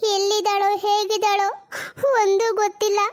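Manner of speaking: tearful mother. Acted. Mother fears for missing daughter.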